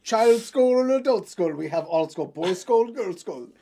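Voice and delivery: a clumsy, hammed-up Russian accent with dropped articles; lightly put-on Russian accent, offering skulls like a street vendor; terrible Russian accent. Podcaster voicing Russian skull sellers, hammed-up Russian accent. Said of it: "that's my terrible accent".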